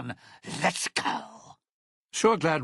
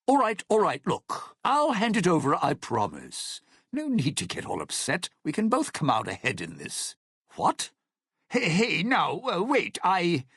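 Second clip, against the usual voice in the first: higher, hurried backpedalling; alarmed placating; 5 semitones higher than usual. Acted. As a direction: plead and stall as if cornered. Threatened, bargaining to calm the listener.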